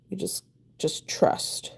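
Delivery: hushed whisper to herself, slow. Real, not acted. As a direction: breathe it out, barely voiced. Whispered self-encouragement.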